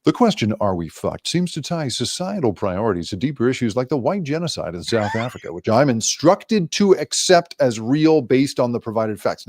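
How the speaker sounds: flat monotone robot read. Pretend. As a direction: speak like a deadpan computer. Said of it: "my favorite robot voice".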